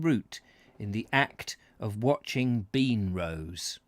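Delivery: measured read-aloud voice; story narration. Acted. Host reading a Cornwall travel book to viewers, narrating.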